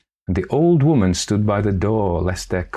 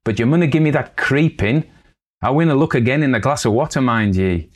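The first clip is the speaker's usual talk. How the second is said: put-on young girl; 6 semitones higher, 4 dB louder, faster than usual. Girl refuses to look.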